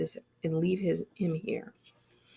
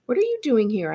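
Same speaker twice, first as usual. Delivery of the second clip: aggressive; 6 semitones higher, 7 dB louder than usual. Acted. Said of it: "It comes out real aggressive".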